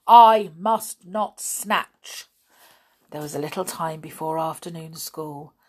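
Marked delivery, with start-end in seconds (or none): 0.1-2.3 loud, slow punishing order; teacher ordering lines; stern order. Acted. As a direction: drive the punishment home. Grimm sets punishment.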